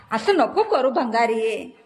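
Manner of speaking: slow, drawn-out fond scolding; fond reproach. Real, not acted. Teasing reproach to child. (प्रेमाने हळू दटावणे)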